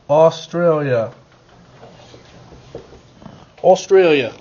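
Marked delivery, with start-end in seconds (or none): 3.6-4.3 playful put-on Australian accent. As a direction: say Australia like an Aussie. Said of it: "I'm speaking in my Australian accent".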